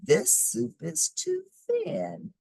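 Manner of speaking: put-on very high, slow little old lady marvelling. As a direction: squeak it like a tiny amazed old woman. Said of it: "the little old lady said".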